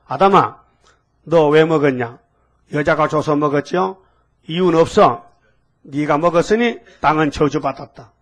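a hint of a stern God calling Adam to account; lightly voiced God, scolding; God rebuking Adam. Preacher voicing God scolding Adam, stern.

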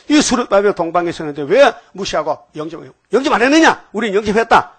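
high shouted accusation; shouting. Retold or imitated. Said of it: "막 소리 지른다는 거예요". (높게 외치듯 소리 지르며)

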